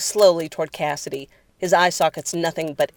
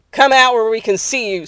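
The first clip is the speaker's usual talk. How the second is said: raised, higher commanding voice; loud order into the shadows; calling out; 6 semitones higher, 8 dB louder than usual. Acted. Cassidy calling out someone hidden in the trees, loud command.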